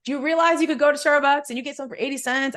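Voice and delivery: high, loud and gushing; excited announcing. Retold or imitated. Traveler trying to tell everybody at the airport, excited announcing. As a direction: spread amazing news to anyone in earshot. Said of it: "I was trying to tell everybody at the airport".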